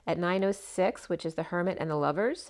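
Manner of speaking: losing her voice, slightly hoarse; a little strained and rough. Real, not acted. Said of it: "I'm losing my voice a little bit here".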